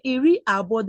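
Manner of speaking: iri abo said clearly for learners; teacher modelling iri abo; modelled Igbo word. Shown as a demonstration. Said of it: "But in twenty, you just say".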